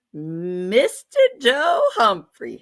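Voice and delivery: slow, drawn-out showy announcing; grand announcing. Real, not acted. The host calling out a viewer's name, slow and grand.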